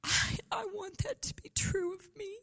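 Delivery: high hushed whisper of longing; whispered inner prayer. Retold or imitated. Preacher voices her own silent prayer, hushed whisper. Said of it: "And I thought".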